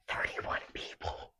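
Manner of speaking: slow, soft whisper of disbelief; hushed and stunned; awed whisper. Real, not acted. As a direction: whisper it slowly in amazement. Awed at visitor count.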